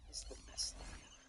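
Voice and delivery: put-on high, bright little-boy squeal of joy; happy kid voice. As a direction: play the thrilled little son. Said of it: "he goes".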